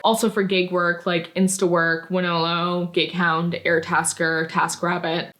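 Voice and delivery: hoarse, worn-out voice; losing voice. Real, not acted. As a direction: voice going hoarse from talking. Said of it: "I'm losing my voice".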